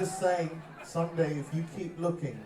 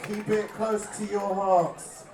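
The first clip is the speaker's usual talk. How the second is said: slower "Keep it close to your hearts" softened by laughter; laughing repeat; 8 semitones higher, 9 dB louder, slower than usual. Acted. Singer repeating the line to the crowd, slowed and laughing. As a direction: let the preacher act crack into a laugh.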